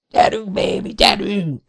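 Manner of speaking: urging the helicopter desperately; frantic yell. A narrator's reading. Keris frantically urges the falling helicopter. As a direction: beg the machine to hold. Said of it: "üvöltötte Keris magán kívül".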